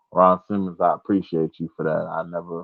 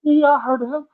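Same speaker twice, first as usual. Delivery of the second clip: sheepish dad. Retold or imitated. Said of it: "and my dad".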